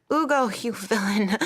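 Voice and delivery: a maid playing the lady, scolding loudly; hammed-up haughty rebuke; mock grand lady scolding. Maid pretending to be a lady, berating her servant in mock haughtiness. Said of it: "I'll talk thus".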